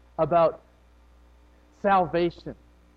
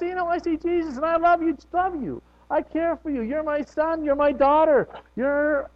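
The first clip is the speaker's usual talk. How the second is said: God speaking lovingly; 12 semitones higher than usual. Retold or imitated. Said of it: "He looks at us and goes".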